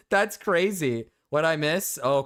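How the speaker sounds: normal talking voice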